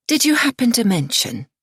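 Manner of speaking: pushed out through clenched teeth; through gritted teeth. A narrator's reading. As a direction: hold back anger through your teeth. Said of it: "I ask through gritted teeth".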